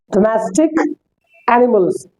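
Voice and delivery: Domestic animals read clearly as a model. Shown as a demonstration. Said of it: "तो डोमेस्टिक का मतलब".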